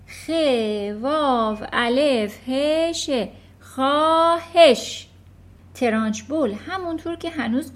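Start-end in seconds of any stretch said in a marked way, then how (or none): 0.1-5.1 yelling. Acted. Eric yelling the spelling while dangling by his ears. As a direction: bellow each letter to end the pain. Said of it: "بنابراین هوار کشید".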